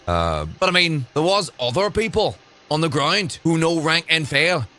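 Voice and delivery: a light Northern Irish accent put on for a quote; lightly imitated Northern Irish accent while quoting the loyalist; Jamie Bryson's Northern Irish accent. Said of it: "I'll stop doing the accent".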